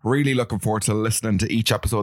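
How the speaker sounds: a hint of a Northern Irish accent. Host reading a listener review, light Northern Irish accent. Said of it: "read this in a Northern accent".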